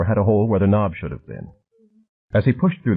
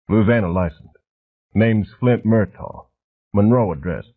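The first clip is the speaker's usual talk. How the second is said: lightly voiced rumbling thug; cement mixer voice. A narrator's reading. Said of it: "a voice like a cement mixer turning over".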